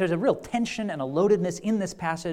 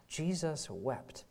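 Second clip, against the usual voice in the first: soft slow reading; 10 dB quieter, much slower than usual. Shown as a demonstration. Repeats verse slowly and softly.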